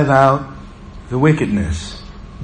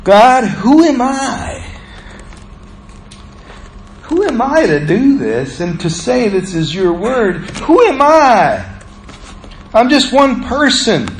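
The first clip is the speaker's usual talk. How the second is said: retold doubting prayer; 4 semitones higher than usual. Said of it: "And I'm saying".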